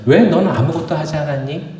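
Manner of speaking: lightly acted master telling off a servant; mild scolding. Master questions the idle servant, mildly scolding. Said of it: "그러면서 야단을 쳐요".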